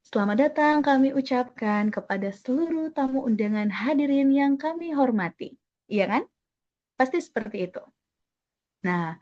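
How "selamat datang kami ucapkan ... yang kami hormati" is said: polite, lilting wedding greeting; gentle wedding MC. Shown as a demonstration. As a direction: welcome the guests smoothly without forcing the volume. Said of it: "Pasti bilangnya".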